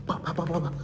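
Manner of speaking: rapid spoken pops; imitated popping noise. Storyteller imitates popping during police chase, rapid-fire. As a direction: rattle off popping sounds.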